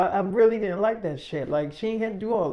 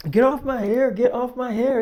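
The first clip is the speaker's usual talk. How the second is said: mock protest, a bit raised and urgent; mildly raised retold outcry; 3 semitones higher than usual. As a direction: act out someone being grabbed by the hair. Acted quote of woman being dragged.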